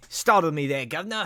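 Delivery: a lightly voiced startled street beggar. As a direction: beggar caught off guard, mild fright. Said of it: "he says".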